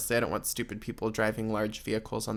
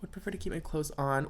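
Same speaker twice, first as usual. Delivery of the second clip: whisper; 8 dB quieter than usual. Acted. Whispered aside to caller.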